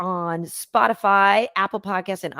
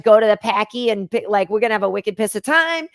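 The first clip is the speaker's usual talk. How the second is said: Boston accent. Shown as a demonstration. Boston native demonstrating on request, Boston accent. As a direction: lay on some Boston vowels. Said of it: "but if you asked me to".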